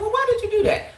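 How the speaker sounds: high, rising questioning of her; quoting Martell asking Tiffany why; voicing Martell. Martell questions Tiffany, high and rising. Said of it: "He said".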